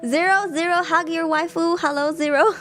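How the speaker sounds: laughing apology climbing in pitch; laughing to tears. Real, not acted. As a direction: apologise through helpless giggles. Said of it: "I'm crying".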